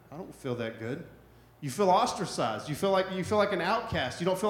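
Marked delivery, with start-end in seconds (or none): 0.1-1.0 low and soft, quietly let down; deflated reply. Acted. Pastor acting a hurting churchgoer, low and deflated. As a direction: mumble it like you're barely holding up. Struggling person answers cheerful friend.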